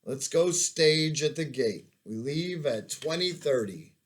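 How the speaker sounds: put-on lightly high nerdy German-accented orders; a hint of Urkel with German accent, giving orders. Sergeant Major ordering the move out, light German-accented Urkel. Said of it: "His voice sounded like a giant white Steve Urkel with a German accent".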